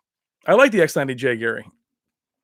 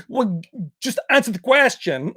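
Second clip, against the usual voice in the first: put-on lightly accented action-star catchphrase; mock tough guy, rising on the demand; Van Damme impression; 5 semitones higher than usual. Recalling clowning in a bar, light Van Damme impression. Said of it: "So I'm like".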